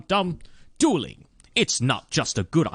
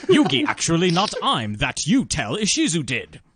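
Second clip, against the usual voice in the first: Yoda voice; 6 semitones higher than usual. Pretend. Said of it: "That was the Yoda version of his line".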